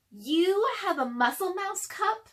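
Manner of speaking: high, slow, breathless whisper; amazed whisper. Acted. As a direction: whisper it like a wonderful secret. Lily surprised at the cup.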